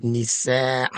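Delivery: "nisaa" with a long drawn-out final aa; elongated vowel. Shown as a demonstration. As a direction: stretch the last vowel of "nisaa". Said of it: "The elongated medda vowel".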